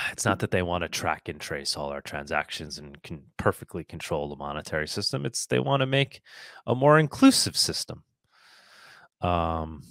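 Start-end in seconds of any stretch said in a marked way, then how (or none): 0.1-8.0 low dry start, lifting at the end; deadpan denial, then mock-earnest payoff; sarcastic. Real, not acted. Host mocking official motives for digital currency, sarcastic. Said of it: "I'm being sarcastic".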